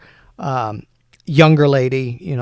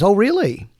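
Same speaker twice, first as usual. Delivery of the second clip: higher, questioning "oh, really"; intrigued surprise; 7 semitones higher, 4 dB louder than usual. Acted. Fellow perking up at what he overhears, intrigued. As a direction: perk up with sudden interest.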